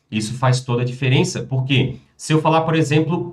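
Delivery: ordinary talk, nothing marked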